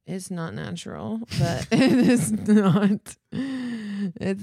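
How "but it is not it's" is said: laughing. Real, not acted. Laughing while teasing back.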